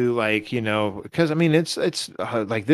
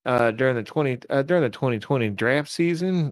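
put-on Texas accent. Podcaster resuming his player story, put-on Texas accent. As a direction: play the folksy Texan storyteller. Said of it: "Does it sound like a Texas accent".

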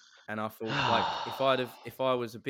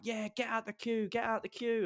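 imitated girls in a much higher voice; chiming-in girls; 12 semitones higher than usual. Girls behind him backing him up, high mocking imitation. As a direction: mimic a chorus of girls, high and jeering. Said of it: "all the girls behind him started going".

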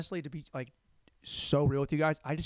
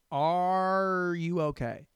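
mock concerned clerk; 4 semitones higher, 4 dB louder, much slower than usual. Store clerk reacting to old phone.

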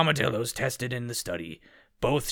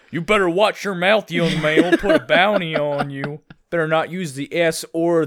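stern sheriff voice; 3 semitones higher, 6 dB louder than usual. Acted. Mock sheriff scolding.

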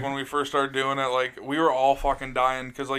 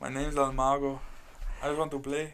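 quoting a commercial; 6 dB quieter than usual. Retold or imitated. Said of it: "that's his commercial".

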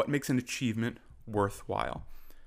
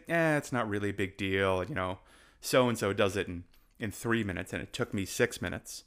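lower-pitched mock modest shrug; dismissive brush-off; 4 semitones lower than usual. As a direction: wave the compliment away, pitched down. Voicing athlete brushing off praise.

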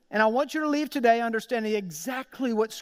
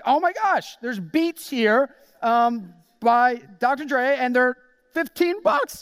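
excited buyer; 3 semitones higher, 4 dB louder, slower than usual. Retold or imitated. Shopper spotting cheap headphones, thrilled and loud. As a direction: squeal it like you found treasure.

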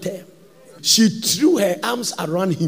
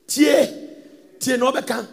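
calling out; 5 semitones higher than usual. Retold or imitated. Seductress calls to Obeka.

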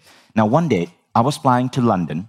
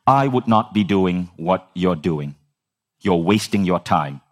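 deep pronouncement; 3 semitones lower than usual. Retold or imitated. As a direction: deliver a grave verdict, word by word. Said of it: "something deep is coming".

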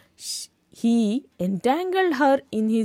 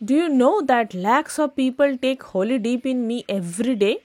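polite reasoning; faster than usual. Acted. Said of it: "Politely, the river reasoned".

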